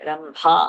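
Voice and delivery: "रम्भा" with a breathed भा; aspirated bha. Shown as a demonstration. Teacher correcting the mahaprana, "रम्भा" with aspirated भा. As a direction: put a puff of air on the भा of "रम्भा". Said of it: "that bha is mahaprana".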